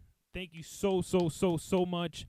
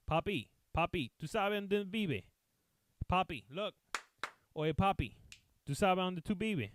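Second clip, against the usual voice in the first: imitated street talk; 4 semitones higher than usual. Firemen coaxing the lost old man, Spanish accent. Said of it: "that's how they talk".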